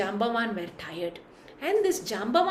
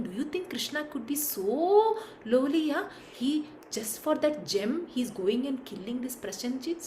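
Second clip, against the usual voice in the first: suspicious murmur; 6 dB quieter than usual. Acted. People doubting Krishna.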